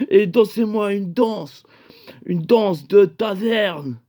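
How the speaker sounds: lightly voiced tavern rogue giving an order; mock old-time declaiming, slowing at the end; medieval character. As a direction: draw it out like a hammed-up medieval command. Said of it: "t'es moyenâgeux".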